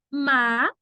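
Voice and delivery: Ma-ri-a said syllable by syllable; syllable-by-syllable teacher demo; split into syllables. Shown as a demonstration. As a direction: break Maria into its three beats, ma, ri, a. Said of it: "se divide assim, ó".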